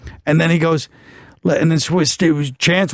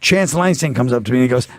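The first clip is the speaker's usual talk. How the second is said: usual speaking voice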